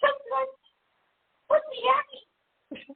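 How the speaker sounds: put-on very high, slow, sing-song girly voice.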